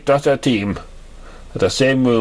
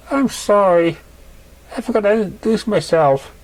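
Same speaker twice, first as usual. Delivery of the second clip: sweet mare; 5 semitones higher than usual. Acted. Raindrops introducing herself.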